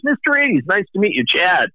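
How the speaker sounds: hammed-up high-pitched hello from Chad; mock greeting. Chad greeting him, mock-formal.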